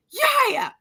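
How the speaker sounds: put-on very high-pitched kid's call; imitated child yelling. Little boy calling out in the store, imitated yelling. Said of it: "Now he's yelling this".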